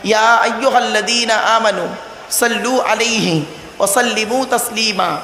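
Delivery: slow, measured Arabic recitation; Qur'anic recitation. Acted. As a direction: recite the verse slowly with drawn-out vowels. (ধীরে টেনে কোরআন তিলাওয়াত)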